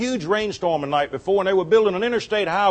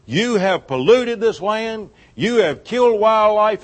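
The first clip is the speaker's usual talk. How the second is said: mock angry scolding; 4 semitones higher, 3 dB louder, slower than usual. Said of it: "he went steaming up".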